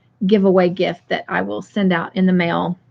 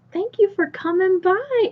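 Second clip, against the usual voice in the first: high, sweet thank-you; warm thanks; 9 semitones higher, 4 dB quieter than usual. Real, not acted. Host thanks a friend for dropping by, warm thanks. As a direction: thank a guest in a high, softer voice.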